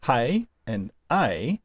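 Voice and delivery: "hey" with an h, then "a" as a bare "ay"; drawn-out contrast of "hey" and "a"; breathing contrast demo. Shown as a demonstration. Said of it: "rough breathing mark versus a smooth".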